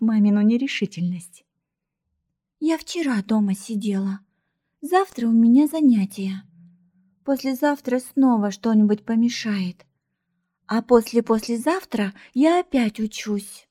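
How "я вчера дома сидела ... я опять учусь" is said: whiny little sibling. Acted. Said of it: "заныла маленькая вредина".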